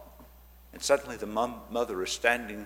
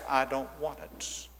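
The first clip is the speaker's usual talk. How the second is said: emphatic refusal; 5 dB quieter than usual. Retold or imitated. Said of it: "she said it so emphatically".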